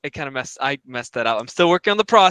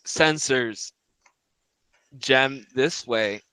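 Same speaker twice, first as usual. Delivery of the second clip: slow, halting robot speech; machine-like, word by word; robotic voice; 2 semitones lower, 3 dB quieter, much slower than usual. Acted. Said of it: "in the robotic voice".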